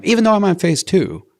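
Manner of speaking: high, loud burst of eagerness; eager insistence. Retold or imitated. Eagerly insisting in retold self-talk.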